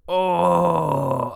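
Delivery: breathless whispered oh of pain; sudden whispered pain; pained cry. Acted. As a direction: gasp it out, hurting. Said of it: "I cry".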